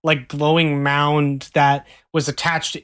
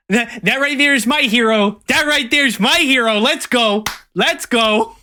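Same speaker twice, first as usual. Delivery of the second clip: proud, higher excited praise; excited cheering; 5 semitones higher than usual. Acted. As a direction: cheer him on like a proud fan. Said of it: "you see Hector look up and go".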